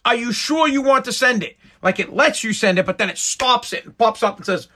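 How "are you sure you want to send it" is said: phone pop-up warning voice. Retold or imitated. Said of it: "it goes".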